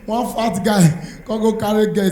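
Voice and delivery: normal talking voice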